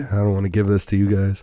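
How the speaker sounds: hoarse from strep, fast; rough sore-throat voice; throaty sick voice. Real, not acted. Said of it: "You got that throaty voice tonight".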